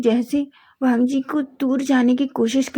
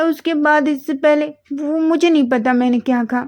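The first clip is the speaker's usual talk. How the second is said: higher, flustered voice; flustered denial; 5 semitones higher, 3 dB louder than usual. Acted. Wing to Wang, flustered, pretending to forget. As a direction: dodge the question, flustered.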